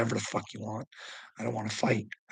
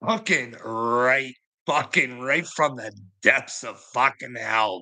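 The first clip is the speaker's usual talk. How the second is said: slow emphatic; slower than usual. Real, not acted. Father condemning his son, slowly and deliberately. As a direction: drag every word out slowly.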